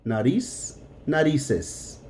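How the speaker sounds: Nariz and narices with a soft S for both z and c. Shown as a demonstration. Teacher showing the sound doesn't change, Nariz and narices both with S. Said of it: "gonna sound both like an S".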